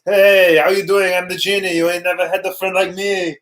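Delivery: Arnold as genie. Pretend.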